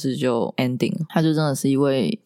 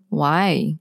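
drawn-out baffled why. Retold or imitated. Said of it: "那个why真的是我问天问地问自己".

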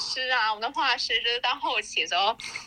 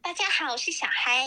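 higher, perky show-host greeting; chirpy radio host hello; old show voice; 4 semitones higher than usual. Shown as a demonstration. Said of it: "用你以前节目的声音讲话".

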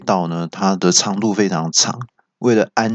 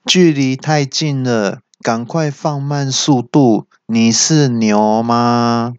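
mock car navigation voice; GPS voice; 3 semitones higher, much slower than usual. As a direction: deliver it like a deadpan navigation alert. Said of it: "导航又会警告说".

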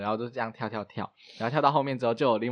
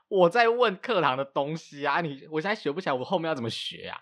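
annoyed retort; 4 semitones higher than usual. Retold or imitated. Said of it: "我都很不爽".

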